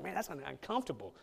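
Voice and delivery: a hint of a startled believer; lightly voiced mock disbelief; uncomfortable churchgoer. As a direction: voice a churchgoer caught off guard. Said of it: "makes us uncomfortable".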